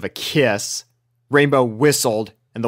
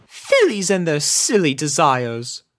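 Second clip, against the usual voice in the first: slow, musing; pondering; 4 semitones higher than usual. A narrator's reading. Rarity musing about fillies, slow. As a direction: muse aloud. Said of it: "pondered Rarity".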